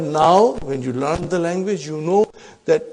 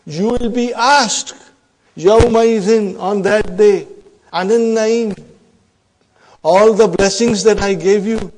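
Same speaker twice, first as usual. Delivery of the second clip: slow, louder warning, words drawn out; solemn divine warning; 3 semitones higher, 8 dB louder than usual. Retold or imitated. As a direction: warn them gravely, each word weighed. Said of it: "Allah subhanahu wa ta'ala is saying".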